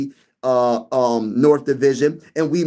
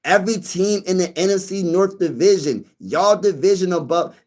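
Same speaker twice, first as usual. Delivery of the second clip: imitating a viewer; 3 semitones higher than usual. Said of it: "He said".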